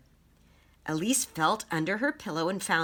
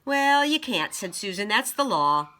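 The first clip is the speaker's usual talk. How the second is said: bossy; 4 semitones higher, 5 dB louder than usual. Acted. Bossy friend laying down rules.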